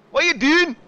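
high, loud mock yell from a driver; loud, high, hammed-up angry shout; mock outraged shout. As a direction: play the furious driver shouting. Mock-voicing driver's angry outburst.

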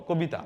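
"কবিতা" with a rounded o after ক; everyday "কবিতা", closed o in the first syllable; spoken o-sound. Shown as a demonstration. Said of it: "কয়ে ওকার যুক্ত করেই বলি".

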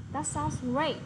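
great pressed and falling; teacher models great with stress. Shown as a demonstration. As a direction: hit the word great firmly. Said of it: "Thì chúng ta nhấn vào great".

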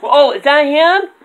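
high squeaky puppet voice; squeaky puppet question; squeaky ventriloquist dummy. Acted. Dummy asks.

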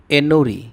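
এন্নুরি with a doubled n, "en-nu-ri"; Tamil word modelled. Shown as a demonstration. Teacher showing Bengali viewers a Tamil word, careful pronunciation. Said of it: "এর তামিল উচ্চারণ হবে".

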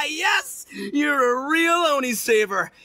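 triumphant cheer. Acted. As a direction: celebrate the win. Itto wins Paimon's help.

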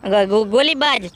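a stuttering, scared friend stumbling over every first sound; nervous stammering sidekick. Acted. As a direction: get stuck on the first letter, lightly scared. Kanjo stammers in fear. (डरा हुआ हकलाता दोस्त)

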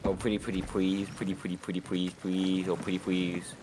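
put-on playful baby-talk pleading; cutesy begging. Player begging a young teammate for help, cutesy pleading. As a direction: wheedle sweetly with soft r sounds turned to w.

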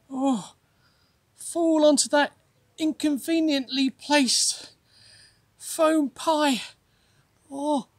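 a hint of a groaning, sunstruck prophet; lightly voiced suffering Jonah. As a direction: moan and grumble at God in the heat. Jonah complains under the sun.

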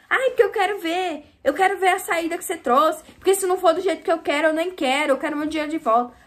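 mock the customer's nagging demands; whiny demanding customer. (imitação chorosa e exigente da cliente, mais aguda)

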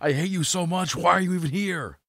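high, loud mock rant at a character; mock exasperation. Mock-scolding a character they wrote.

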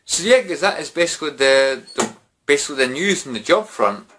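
slurring a little after drinks. Real, not acted. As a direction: talk loose and tipsy. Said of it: "It's a drunken vlog".

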